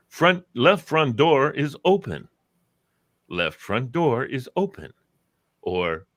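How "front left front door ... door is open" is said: slow, measured car announcement; imitated talking car. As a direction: recite it like an automated car warning. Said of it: "It says things like".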